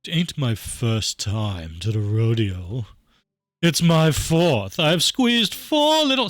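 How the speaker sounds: very slow, drawn-out Southern drawl; Southern accent. Acted. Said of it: "I don't know why she's Southern now".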